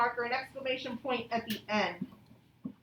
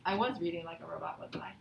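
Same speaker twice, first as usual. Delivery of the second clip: fast playful whisper; 7 semitones lower, 6 dB quieter than usual. Real, not acted. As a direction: confess it in a sly whisper.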